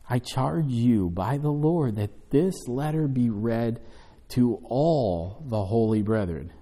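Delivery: slow, deliberate reading of the verse; scripture reading. Acted. Pastor reads the charge to the church, slow and deliberate. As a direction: lay each word out as scripture.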